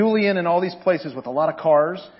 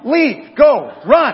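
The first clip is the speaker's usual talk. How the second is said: mock shooing off; 6 semitones higher, 9 dB louder, much slower than usual. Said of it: "I'm like".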